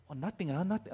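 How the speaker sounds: put-on lightly accented Singaporean auntie, unimpressed; a touch of put-on Singaporean accent. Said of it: "one of those old Singaporean aunties".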